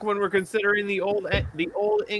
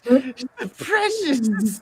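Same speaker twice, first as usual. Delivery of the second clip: slow, higher creepy creature voice; Gollum voice; 3 semitones higher, much slower than usual. Retold or imitated. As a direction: hiss it like a hoarding creature. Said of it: "talk like".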